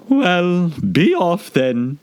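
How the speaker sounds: high, slow grumbling bird; sulky pigeon. Acted. Pigeon sending Alice away, sulky. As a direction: dismiss her sulkily. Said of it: "said the pigeon in a sulky tone".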